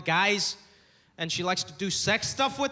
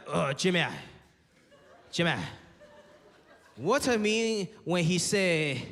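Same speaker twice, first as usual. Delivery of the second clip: put-on old Chinese dad; 4 semitones lower than usual. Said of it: "my dad was like".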